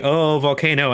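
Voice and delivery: imitating a bored chef, no showmanship; unenthusiastic. Storyteller mimics the chef skipping the volcano bit, unenthusiastic. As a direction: say it without any wonder. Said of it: "Not, not even like, "Ooh".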